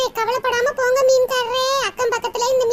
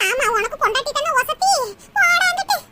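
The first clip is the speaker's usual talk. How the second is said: tearful complaint. Acted. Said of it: "சரிம்மா, அழுகாத".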